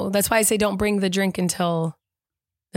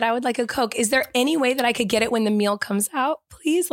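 higher, sweet and overly polite; polite request; 4 semitones higher than usual. Retold or imitated. Wife quoting how she asked the waiter, sweetly polite. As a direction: ask as nicely as possible. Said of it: "Like, I said it, like".

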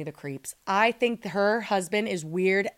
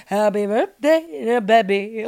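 mock husband voice; 2 semitones higher, 6 dB louder, slower than usual. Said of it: "He's like".

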